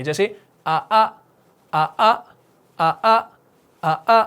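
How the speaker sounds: teacher's demo of the mistake; both hamzas clear. Shown as a demonstration. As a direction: show the wrong way, both آ struck. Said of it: "اگر دونوں کے اندر تحقیق ہو گئی".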